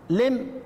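لم cut off on the mim; لم ending on a plain m; stopping without ha. Shown as a demonstration. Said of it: "إذا وقفت عليها تقف إيه". (الوقف على لم بالميم)

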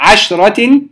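عشرة with a vowelless ش; شين ساكنة. Shown as a demonstration. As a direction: hold "عشرة" on the ش without adding a vowel. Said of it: "ولم نحرك الشين". (عشرة بتسكين الشين)

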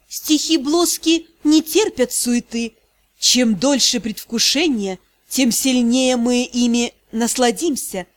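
медленно и проникновенно; обволакивать голосом, не торопясь. Acted. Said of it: "Голос становился всё проникновеннее". (всё проникновеннее)

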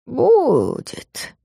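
put-on soft, dragged old man's answer; drawn-out old man. A narrator's reading. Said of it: "растянуто по-стариковски". (протяжно, по-стариковски)

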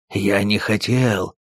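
slow choked wheeze; wheezing. Acted. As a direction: rasp it out, half choking. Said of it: "прохрипел он".

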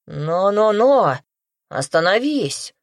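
loud protest. Acted. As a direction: cut her off loudly. Merchant protests loudly.

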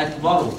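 "أكبر" ending in a short u, "akbaru"; damma on ra. Shown as a demonstration. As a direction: add a short u after the ر of "أكبر". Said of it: "هنضم الراء".

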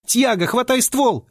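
high desperate holler; yelling. A narrator's reading. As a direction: scream the order at him. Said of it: "завопила Финни".

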